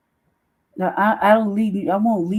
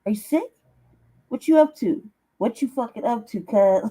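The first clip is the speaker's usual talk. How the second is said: mock suspicious questioning; 4 semitones higher than usual. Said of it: "I'm like".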